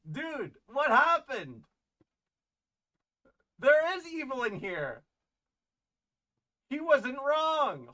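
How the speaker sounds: high, hushed and slow, pretending to be spooked; mock spooky dread. Streamer pretends a camera glitch is evil spirits, hushed spooky dread. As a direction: play up the haunted-stream fear, hushed and slow.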